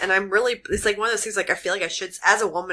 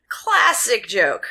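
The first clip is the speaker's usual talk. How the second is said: sarcastic; 4 semitones higher, 4 dB louder, much slower than usual. Real, not acted. Mock praise of corny joke.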